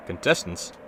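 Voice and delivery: loud, grand host voice; game show host. Acted. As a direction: boom it out like a TV host.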